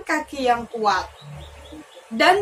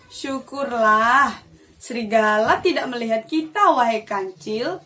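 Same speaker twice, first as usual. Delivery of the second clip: relieved sigh; 3 semitones lower than usual. Acted. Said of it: "dengan nafas lega".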